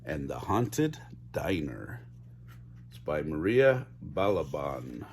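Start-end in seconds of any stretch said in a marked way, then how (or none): 0.0-2.0 low, slow spooky read; low drawn-out Haunted; spooky title. Shown as a demonstration. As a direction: drag out the title like a ghost story. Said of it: "spooky title read".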